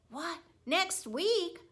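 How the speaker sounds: high, rising disbelief; panicked double take; a hamster dreading the weekend; alarmed surprise. A narrator's reading.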